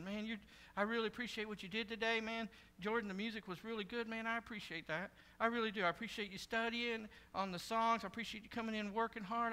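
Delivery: soft, casual thanks; normal conversation. Shown as a demonstration. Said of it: "It's a normal conversation".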